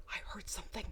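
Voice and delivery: unvoiced hushed whisper. Nicola whispering to the others in the woods. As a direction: breathe it out, scared to be heard. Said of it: "They all strained their ears".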